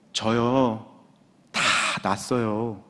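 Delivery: low imitation of a careful wife; careful, hesitant. Sick wife tells her husband her news, cautiously. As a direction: deliver the news gently, with pauses. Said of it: "너무 이렇게 조심스럽게 얘기해서".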